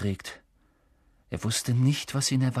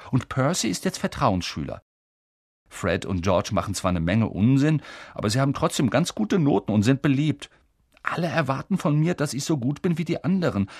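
Ron complaining; 4 semitones higher, 4 dB louder than usual. Acted. Ron voiced for many lines.

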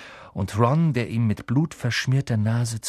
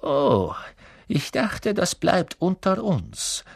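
icy voice; 8 semitones higher, slower than usual. A narrator's reading. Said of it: "sagte Snape mit eisiger Stimme".

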